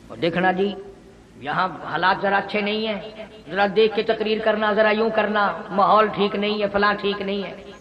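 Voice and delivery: low, hushed, confidential mock warning; cautious advice. Locals warning the preacher conditions are not good, hushed. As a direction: imitate a wary adviser, softly and low.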